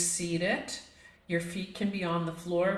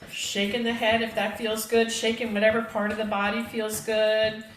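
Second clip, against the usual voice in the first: raised, loud voice while shaking out; energetic urging; 4 semitones higher, 4 dB louder than usual. Real, not acted. Teacher leading a class in shaking out, energetic urging. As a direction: coach them through a vigorous shake.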